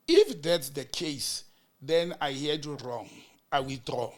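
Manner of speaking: slow, even and unhurried, conceding the point; calm withdrawal. Retold or imitated. Lawyer calmly withdraws his remark to the judge, slow and even. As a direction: back down without any heat. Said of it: "Rafik was calm".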